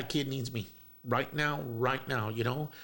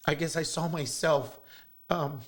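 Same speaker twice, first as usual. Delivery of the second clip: choking up; 3 semitones higher, 3 dB louder, slower than usual. Real, not acted. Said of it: "Got some tissue or something?".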